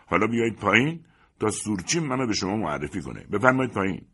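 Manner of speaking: insistent but contained call; haughty invitation. Acted. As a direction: invite them down with offended dignity. First call, before angry repeat.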